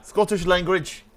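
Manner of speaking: tentative fake Scottish accent. Host practising for his friends, mock Scottish accent. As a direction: feel for a Scottish accent, badly faked. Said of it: "got to do the Scottish".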